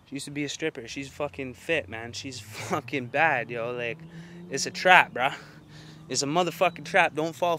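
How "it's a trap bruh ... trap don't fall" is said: raised, urgent warning to viewers; emphatic shout of warning; loud warning. Real, not acted. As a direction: call it out loud so they hear it. Warning viewers, heated rant.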